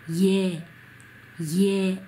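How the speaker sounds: イエ as one drawn-out Korean syllable "ye"; 発音のお手本. Shown as a demonstration. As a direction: model イエ as a held, isolated "yeh". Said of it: "イエと言います". (イエを一音節で「イェー」と伸ばす)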